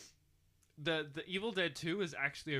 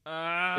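sneezing; 4 semitones higher, 13 dB louder than usual. Real, not acted. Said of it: "the feeling of having to sneeze".

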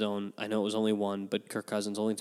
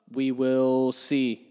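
yawning; 6 dB louder, much slower than usual. Real, not acted. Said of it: "Once you start yawning".

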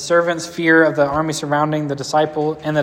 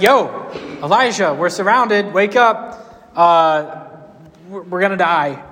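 mock panic; 3 semitones higher, slower than usual. Servant waking Elijah about the army, mock panicked. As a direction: sell the alarm of waking Elijah.

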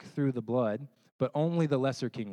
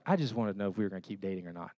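put-on flustered girlfriend; 4 semitones lower, much faster than usual. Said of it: "And she's like".

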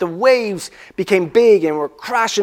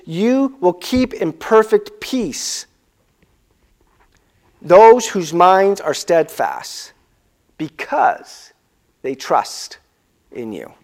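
slow, tender reading that fades to a hush; slow scripture reading; slower than usual. Real, not acted. Pastor reading scripture to the congregation, slow and fading. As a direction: read it slowly, letting it sink in.

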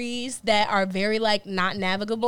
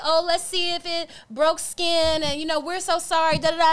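fussy white women; 5 semitones higher than usual. Retold or imitated. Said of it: "they're like".

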